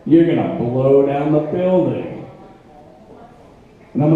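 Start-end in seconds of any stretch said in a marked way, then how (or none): 0.1-2.2 low, grim tough-guy warning; Clint Eastwood impression. Chubby conscience angel on his shoulder warns him, low grim tough-guy voice. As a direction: growl it like a weathered cowboy hero. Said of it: "fat Clint Eastwood impression".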